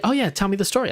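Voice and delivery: a touch of northern English granddad; granddad's voice. Retold or imitated. Granddad asks to hear the story, northern accent. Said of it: "and he was like".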